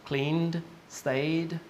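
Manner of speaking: no E heard in "Cleaned" or "stayed", just D; D ending. Shown as a demonstration. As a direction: list "Cleaned", "stayed" as model one-syllable words. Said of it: "there's no E".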